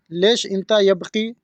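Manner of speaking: लेश इंता यबकी said slowly, each word clear; slow it down so the learner catches every word; slow, careful repeat. Shown as a demonstration. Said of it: "इसको अरबी में बोलेंगे". (धीरे धीरे साफ़ बोलना)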